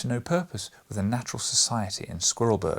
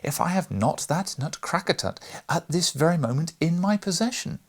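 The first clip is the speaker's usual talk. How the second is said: high, loud, jubilant calls; overjoyed, shout the good news; triumphant brother, loud and high; joyful crying out; 7 semitones higher, 3 dB louder than usual. A narrator's reading. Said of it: "and cried".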